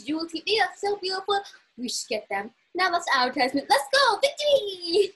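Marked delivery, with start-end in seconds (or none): 3.7-5.2 high, loud triumphant cheer; excited victory cry. Real, not acted. Celebrating a win in the game, triumphant cheer.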